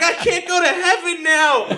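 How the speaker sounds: high, laughing fake panic; imitating her horror lightly; hammed-up distress; mock dismay. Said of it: "she's like".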